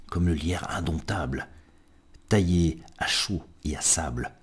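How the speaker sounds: rhythmic recital, rising through the list then settling; poem reading. Acted. Reads a poem aloud. (lecture de poème rythmée, qui finit doucement)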